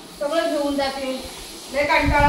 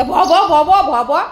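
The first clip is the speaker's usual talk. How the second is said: mock dog barks in words; imitated barking; 4 dB louder than usual. Mocking the just-woken dog, imitated barking. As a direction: bark back at the dog, repeatedly.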